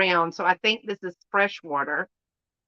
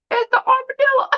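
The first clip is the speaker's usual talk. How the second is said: much higher, fast squeal of delight; excited reveal; 4 dB louder, faster than usual. Real, not acted. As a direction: burst out with the big reveal. Revealing armadillo figurine excitedly.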